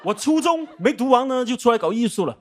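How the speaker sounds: announcer tone, round and formal; broadcaster voice. Shown as a demonstration. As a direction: newsreader delivery. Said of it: "我怎么播音腔都出来了？".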